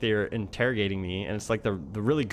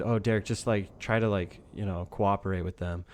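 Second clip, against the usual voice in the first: lowered, calm imitation of a boss; calm advice; 4 semitones lower than usual. Boss advising employee to cooperate, imitated calm. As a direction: advise gently, keeping it low. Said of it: "like, a very calm voice".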